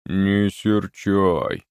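slow, drawn-out apologetic wood spirit; a hint of a sheepish forest spirit; rustling plea. A narrator's reading. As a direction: rustle it out guiltily. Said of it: "прошелестел леший".

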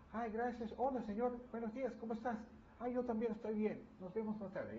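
breezy hammed-up hello to the Lord; mock cheery prayer. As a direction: chirp it like greeting a neighbour, mocking. Mocking shallow cheerful morning prayer.

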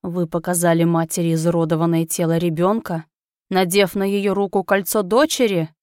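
eldritch horror. Acted. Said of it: "Нечеловеческий голос устрашающе процарапал воздух".

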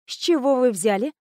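негромкий мягкий вопрос; спросить бережно, без нажима; мягко. A narrator's reading. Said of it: "уточняю мягко". (мягко уточняет у Хана)

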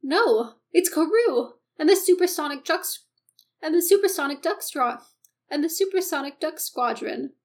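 big cartoon-hero shout; triumphant announcement. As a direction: herald the heroes' arrival. Announcing the heroes' arrival triumphantly.

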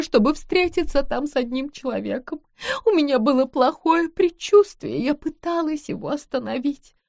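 высоко, взволнованно, на грани слёз; рассказывай, сдерживая рыдания; плачущая вдова. Acted. (вдова рассказывает о пропавшем муже: на грани слёз)

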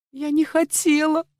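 frightened maid sobs her denial to the lady; sobbing. Acted. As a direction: plead through a sob. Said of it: "всхлипнула девушка".

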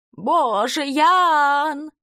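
high swooning squeal; breathy cutesy giggly. Retold or imitated. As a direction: gasp his name like a fangirl. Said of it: "песклявым голосом передразнивает".

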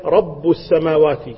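رب said as "rabbu" with damma ending. Shown as a demonstration. Teacher shows the damma reading of رب. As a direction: pronounce رب السماوات with a damma on رب. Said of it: "بالضم".

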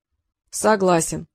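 slow, grudging assent; a gloomy sphinx giving in, drawn out. A narrator's reading. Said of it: "мрачно ответил Сфинкс".

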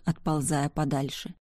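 plain reading voice

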